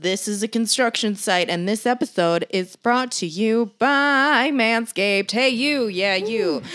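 1940s news reporter. Acted. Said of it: "I'm trying to talk like a nineteen forties news reporter".

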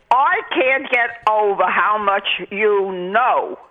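whispered, awed repeat; whispering the praise in awe. Real, not acted. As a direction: drop to a breathless whisper of amazement. Caller repeats praise, now whispered.

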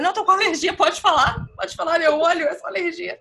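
high, insistent, with a laugh at the end; defensive denial. Retold or imitated. Insisting to her friend it's only allergy, high and laughing. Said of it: "Eu falei".

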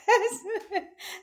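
bright laugh ringing out; burst of laughter. Real, not acted. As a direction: laugh out at the memory. Laughing at her own story.

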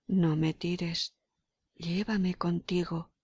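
slow, hushed whisper from the skull; muffled whisper. Acted. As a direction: breathe it out slowly, barely voiced. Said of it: "oyó una voz sorda".

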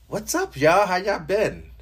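sing-song high hello; high-pitched greeting. Pretend. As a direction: pitch it way up, playful. High sung-style greeting.

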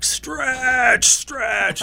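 high urgent shout; frantic crew calling out. Retold or imitated. Crew shouting at tangled anchor.

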